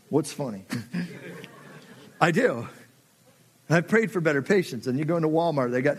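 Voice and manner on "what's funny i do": laughing. Real, not acted. Laughing at his own patience.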